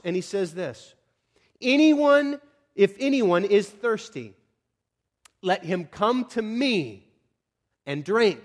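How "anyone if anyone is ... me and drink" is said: loud, high opening, then slow proclamation; calling out. Acted. Jesus standing up amid packed worshipers, calling out. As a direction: proclaim it slowly to a whole crowd. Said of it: "At the top of his lungs".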